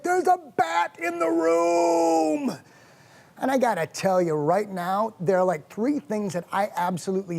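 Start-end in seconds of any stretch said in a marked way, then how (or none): 0.0-2.6 high, drawn-out panicked wail; wife's mock yell. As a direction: cry the alarm like a yelling wife, stretching the words. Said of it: "what are you yelling for".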